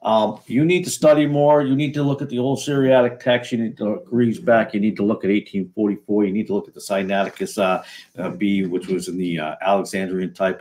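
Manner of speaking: a hint of a preachy seminary type; mock condescending scholar. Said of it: "And people are like".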